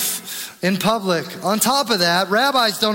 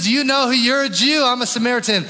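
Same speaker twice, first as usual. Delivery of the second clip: higher and brighter, her disbelief voiced in a rush; shocked woman; 4 semitones higher, faster than usual. The Samaritan woman asks Jesus, pitched high in mock shock. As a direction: raise it as she catches who is asking her. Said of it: "It even shocks her".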